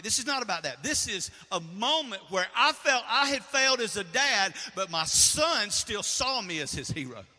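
rising preacher's exhortation; preaching. Acted. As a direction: urge the congregation to stand up. Preaching to fathers.

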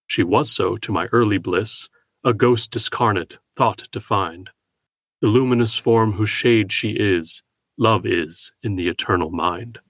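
slow, measured poetry reading; poem recitation. Acted. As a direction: read each line slowly, like verse.

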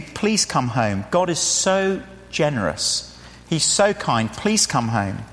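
earnest, unhurried entreaty; gentle pleading. Real, not acted. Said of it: "pleading with you to do this".

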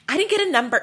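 high-pitched retold yell; mock scream. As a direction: imitate a man screaming over not getting his way. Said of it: "He was screaming at them".

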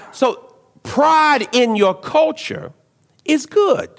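slow build, with good pitched high; stressed, rising on good. Shown as a demonstration. Pastor stressing to the congregation that pride is good, slow and rising. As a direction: draw out pride in your culture, then lift up good. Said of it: "Hear how I say that".

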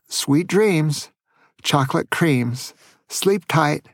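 tender bedtime send-off; tucking in at bedtime. Real, not acted. Goodnight rhyme at bedtime.

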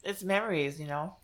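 speaking around a bite of food; chewing between words; wolfing down food. Real, not acted. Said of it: "I'm sorry, I'm eating".

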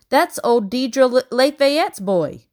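high, loud delighted recognition; light up with pleased surprise, drawn out. A narrator's reading. Tumble's mother recognising a neighbour's boy, delighted. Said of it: "Tumble's mother sounded delighted".

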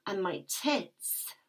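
intimate, aroused first-person storytelling; breathless submissive narrator lost in the moment; breathy erotic narration. Acted. Narrator reliving the scene for listeners, aroused and intimate.

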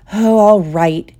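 slow, drawn-out grudging agreement; grudging snap. Acted. Ron gives in to his friend, grudgingly irritated. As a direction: give in with mild irritation. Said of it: "he snapped".

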